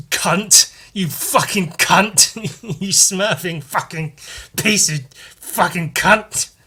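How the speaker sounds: high, loud mock outburst; hammed-up cartoon rage at a stubbed toe; angry Smurf. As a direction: yell it up high like a furious cartoon. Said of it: "one of them can get angry".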